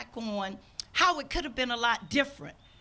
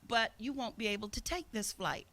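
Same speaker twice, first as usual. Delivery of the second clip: calm; 4 dB quieter than usual. Retold or imitated. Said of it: "I very calmly said".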